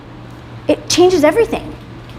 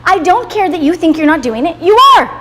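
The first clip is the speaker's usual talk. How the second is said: firm retort; 5 semitones higher than usual. Retold or imitated. Telling off parent not donating.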